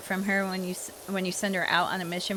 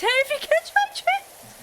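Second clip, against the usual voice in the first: suggestive; 6 dB louder, slower than usual. Real, not acted. Suggestive joke about voice actors.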